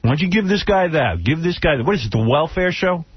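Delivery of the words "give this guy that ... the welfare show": whistling nose. Real, not acted. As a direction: air whistling through nose. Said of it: "That's my nose whistling".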